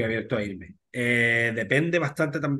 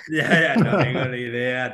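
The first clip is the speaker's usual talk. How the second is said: laughing; 5 dB louder, slower than usual. Real, not acted. Laughing off the Got Talent question.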